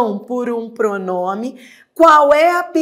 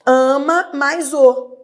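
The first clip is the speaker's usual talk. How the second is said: each word slow and separate, stress on "Ama"; teacher spells out "Ama mais o" slowly; slow demo; 4 semitones higher, 4 dB louder, slower than usual. Shown as a demonstration. Teacher breaks down the phrase for students, slow and deliberate. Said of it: "É isso que você tem que entender".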